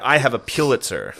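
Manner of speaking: "Pulitzer" said PYOO-lit-ser; snooty pronunciation. Retold or imitated. Bragging pedant imitated for a friend, "Pulitzer" as PYOO-lit-ser. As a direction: put a "pyoo" at the start of "Pulitzer". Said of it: "If you wanna be a real cunt".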